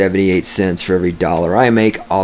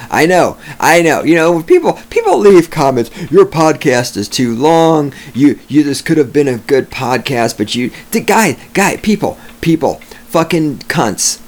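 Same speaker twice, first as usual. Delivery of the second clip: raised, heated rant at the commenters; angry rant; 6 semitones higher than usual. Real, not acted.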